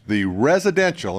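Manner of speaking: emphasize the word residential; weight on residential to single it out; stress on residential. Real, not acted. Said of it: "I emphasize the word residential".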